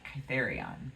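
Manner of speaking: Kytherion said as KY-ther-ee-on; Kytherion, with the stress on KY; her pronunciation. Shown as a demonstration. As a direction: stress the first syllable, KY-ther-ee-on. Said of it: "that's how I like to pronounce it".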